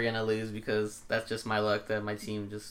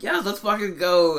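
high, loud, slow hype yell; getting hype; 8 semitones higher, 7 dB louder, slower than usual. Retold or imitated. Fan hyping his team, high loud cheer. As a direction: fire yourself up for the game. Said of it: "I was getting hype".

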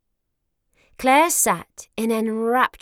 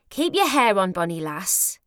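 casual. Acted. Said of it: "Gay said casually".

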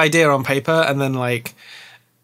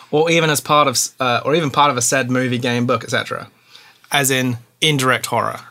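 put-on Australian accent. Host puts a listener's question to the guest, put-on Australian accent. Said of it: "ask the question in an Australian accent".

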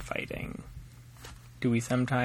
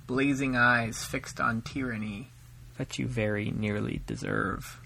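measured, solemn poem recital; poem reading. Acted. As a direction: read it like a ballad to a daughter. Father reads his own poem.

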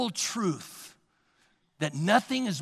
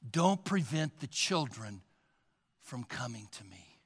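gentle Jesus; 8 semitones lower, 11 dB quieter than usual. Retold or imitated. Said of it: "you hear a voice".

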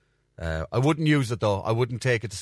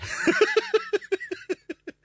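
high chuckling laugh. Real, not acted. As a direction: laugh at your own mischief. Laughs at leaving friend to worry.

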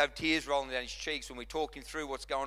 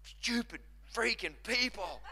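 Moses; 6 semitones higher, 4 dB quieter than usual. Acted. Prophet scolding the calf worshippers, mock exasperated. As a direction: stretch out each word in comic outrage. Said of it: "No wonder Moses come down like".

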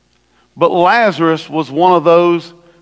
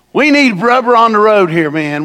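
irritated Martha; 5 semitones higher, 5 dB louder than usual. Retold or imitated. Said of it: "this is what distracted people do".

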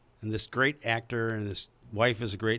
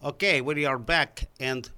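slow, put-on Russian accent; lightly mock Russian voice, words drawn out; 2 semitones higher, slower than usual. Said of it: "now I have Russian voice".

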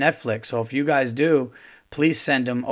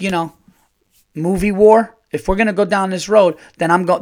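loud, raised battle declaration; declaring war; 4 semitones higher, 5 dB louder than usual. Retold or imitated. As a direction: announce it like a general. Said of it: "I go".

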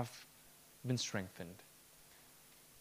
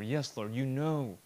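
Peter's reply fading to a whisper; broken-down whisper. Retold or imitated. Preacher voicing Peter's broken reply to Christ, whispered. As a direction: let the answer break into a hushed whisper. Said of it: "Peter broke down at that point".

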